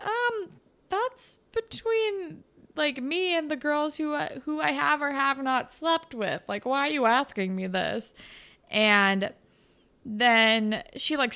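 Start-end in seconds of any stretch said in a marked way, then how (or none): 0.0-8.1 put-on flustered boy. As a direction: stall like a caught boy. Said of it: "And he's like".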